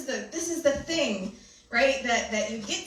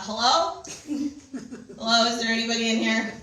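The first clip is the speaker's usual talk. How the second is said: calling out. Retold or imitated. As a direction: call out with a laugh, half-spooked. Calling out to empty bedroom.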